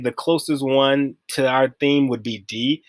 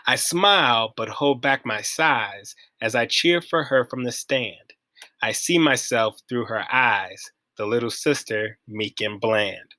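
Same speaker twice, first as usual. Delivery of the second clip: measured verse reading, easing down at the end; poem reading. Acted. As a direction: read it line by line, unhurried. Reads a poem aloud.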